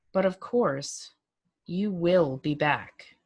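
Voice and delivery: put-on unhurried, knowing old voice; lightly voiced old man, slow. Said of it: "a whiff of that voice came at me again".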